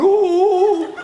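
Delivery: high mock gasp of wonder; hammed-up believers' awe; imitating a weeping crowd; awed crowd. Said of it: "crying, going".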